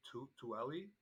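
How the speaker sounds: Tueli tried haltingly as too-ELL-ee, rising; unsure pronunciation. Real, not acted. Host guessing at an unknown town name, unsure pronunciation. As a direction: guess at Tueli with a questioning lift. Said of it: "don't know if I'm gonna pronounce right".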